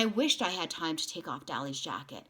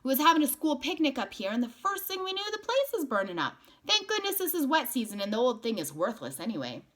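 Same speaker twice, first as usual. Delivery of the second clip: man's voice; 7 semitones higher, 3 dB louder than usual. A narrator's reading. Man voiced in story.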